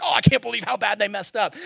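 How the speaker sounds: sing-song fake dismay over a scandal; mock the gossiping tone. Preacher mocking churchgoers gossiping about scandal, sing-song. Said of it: "you're like".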